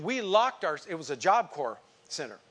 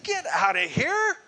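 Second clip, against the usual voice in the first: loud retold rebuke of a demon-casting lieutenant; commanding shout; 9 semitones higher, 6 dB louder than usual. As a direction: order him out at full volume. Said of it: "I said".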